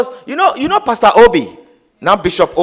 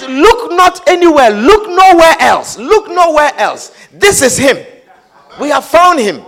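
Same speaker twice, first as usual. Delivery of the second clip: louder, emphatic declaration; insistent conviction; 4 dB louder than usual. Retold or imitated. Preacher voicing Philip's certainty to Nathanael, loud and insistent. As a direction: press it home as Philip.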